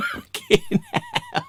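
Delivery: high, loud, breaking into laughter; laughing too hard to speak; real laughing. Real, not acted. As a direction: curse through helpless laughter. Cracking up at his story.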